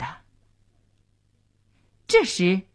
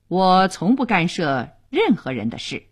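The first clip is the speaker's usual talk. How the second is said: detached, indifferent answer; cold reply; 2 semitones lower than usual. Acted. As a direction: answer coolly, keeping out of it. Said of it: "夏维尼冷淡地回答".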